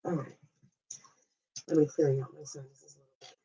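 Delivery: stuffy, nose-blowing pause. Real, not acted. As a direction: talk while clearing sinuses. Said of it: "I'm literally blowing my nose and trying to do it quietly".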